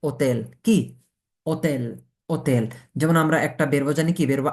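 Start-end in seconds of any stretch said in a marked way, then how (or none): 0.0-0.4 "হোটেল" said as "otel", H dropped; silent H. Shown as a demonstration. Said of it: "আক্কার উচ্চারণ হবে না". 1.5-2.6 "হোটেল" as "otel", opening on O; silent H. Shown as a demonstration. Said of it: "ও এর উচ্চারণ হবে".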